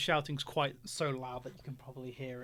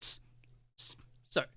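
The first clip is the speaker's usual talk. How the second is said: whisper; 4 dB quieter, faster than usual. Acted. Old man whispering.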